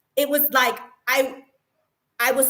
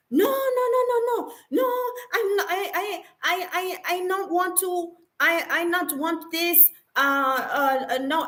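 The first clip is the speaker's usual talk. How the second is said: much higher, stammering backtrack voice; mock flustered manager; 5 semitones higher than usual. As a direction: stutter like someone caught out and scrambling. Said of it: "and she's like".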